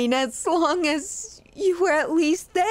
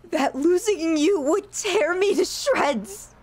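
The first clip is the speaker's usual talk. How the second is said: crying; 2 semitones higher than usual. Acted. Confessing fear of losing them.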